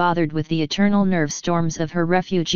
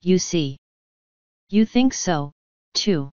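triumphant. A narrator's reading. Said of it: "Dora cried triumphantly".

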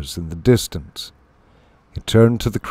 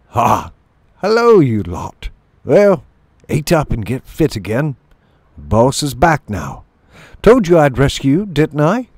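lightly voiced hearty shrew leader; cheerful shrew chief; 5 semitones higher, 4 dB louder than usual. Shrew chief greets his tribe.

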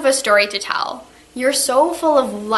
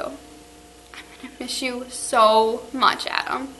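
tearful goodbye; slower than usual. Real, not acted. Teacher's tearful farewell to students.

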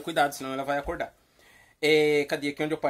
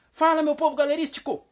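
high, loud, joyful catchphrase; animated, very cheerful; 9 semitones higher, 5 dB louder than usual. Shown as a demonstration. Host teaches Carlos to greet with animation, cheerful shout. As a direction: greet with bouncy, cheerful energy. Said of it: "falar com animação, bem alegre".

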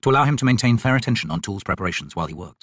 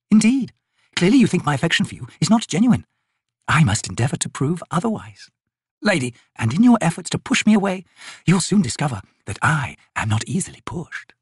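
higher, teasing noblewoman; playful lady voice; 6 semitones higher than usual. Acted. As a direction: tease him with mock resolve. Envy playful challenge.

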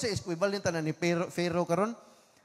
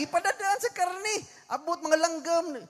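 voice of God; 8 semitones higher than usual. Acted. God answers Moses' request.

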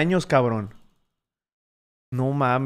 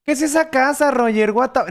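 high-pitched mock bewilderment; mock clueless commenters; 7 semitones higher than usual. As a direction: mimic people asking, pitched up. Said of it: "luego mucha gente".

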